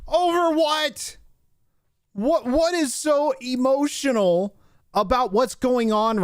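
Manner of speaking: high, slow mocking whine; mocking whiny voice. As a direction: sneer at her tears in a squeaky voice. Mocking the crying actress.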